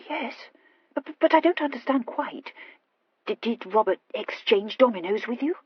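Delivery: lightly voiced stammering girl; puzzled Horatia. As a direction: hesitate over a puzzled question.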